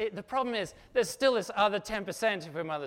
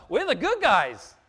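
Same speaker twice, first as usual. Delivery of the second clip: slow and loud, leaning on good; loud declaration; 3 semitones higher, 11 dB louder, slower than usual. Real, not acted. Preacher to his congregation, a slow loud proclamation. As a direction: proclaim it to the room, slow and strong.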